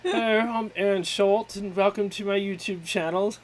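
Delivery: lightly put-on YouTuber greeting; second try at the host voice, laughing; a hint of a cartoon channel host; cartoon version of Aaron. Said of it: "it was a cartoon version".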